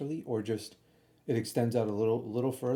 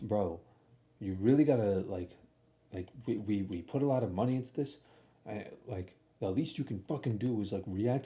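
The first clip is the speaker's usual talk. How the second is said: acted-out angry, ranting, scolding tone; 2 semitones lower than usual. Retelling how a mechanic walked someone around the shop, mock-angry rant. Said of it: "he's got all angry at him".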